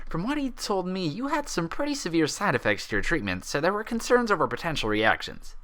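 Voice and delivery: easygoing doctor, lightly voiced. Narrator voices the male doctor.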